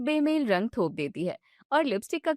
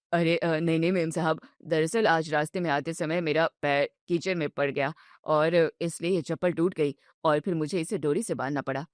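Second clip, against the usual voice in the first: lower-voiced milkman, apologetic and flustered; humble milkman stammering an excuse; embarrassed milkman; 7 semitones lower than usual. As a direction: explain the broken sandal sheepishly.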